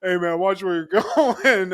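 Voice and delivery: nerdy guy voice, laughing through; a touch of a nerdy whine. Retold or imitated. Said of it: "it's so fucking nerdy".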